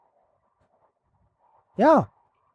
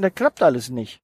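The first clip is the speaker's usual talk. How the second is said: much lower, defeated grumble; gloomy pessimism; 8 semitones lower than usual. Pretend. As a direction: sink the voice into hopeless doubt. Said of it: "der immer zu denken".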